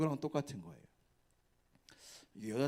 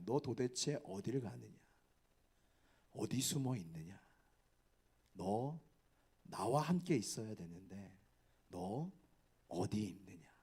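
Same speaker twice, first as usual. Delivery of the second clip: softer, gentle voice of God; warm voice of God; 4 semitones lower, 6 dB quieter than usual. Retold or imitated. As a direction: ask it tenderly, like a seeking father. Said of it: "이 음성이 굉장히 따뜻하게 들립니다". (부드럽고 따뜻한 하나님의 음성)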